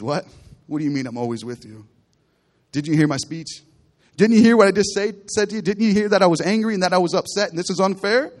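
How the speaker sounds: indignant protest. Acted. Son protests father's words.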